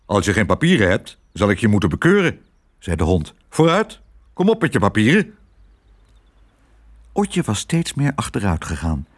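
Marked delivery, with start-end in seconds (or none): 0.1-2.4 fast, officious dog voice; lightly voiced brisk, strict policeman-dog; stern police dog. 3.5-5.4 high, pressing police-dog demand; brisk, insistent authority; officious command. Acted.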